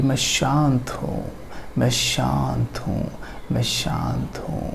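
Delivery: slow, soft self-soothing repetition fading away; calming affirmation. Shown as a demonstration. Teacher demonstrates a yoga nidra affirmation to repeat, calming and fading.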